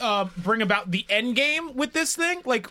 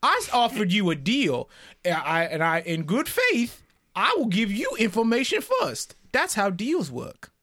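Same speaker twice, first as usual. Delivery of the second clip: put-on Southern accent. Player coaxing the prisoner with a growing Southern accent. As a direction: coax him like a Southern gentleman, accent creeping in. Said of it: "Getting more southern as we go".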